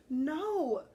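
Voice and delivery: sharp high shout; yelling. Acted. Lucas stopping his father, loud yell. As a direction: cry out to stop him. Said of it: "Lucas yelled".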